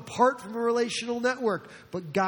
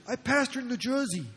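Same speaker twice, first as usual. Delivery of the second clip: put-on New Jersey accent; 4 semitones higher than usual. Fellow pastor saying where he pastors, in an imitated New Jersey accent. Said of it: "he starts talking this kind of way".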